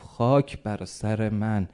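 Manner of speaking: slow, mildly anguished self-reproach; retold lament. Servant of eighty years striking his head, acted lament. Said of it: "دو دستی زد تو سرش".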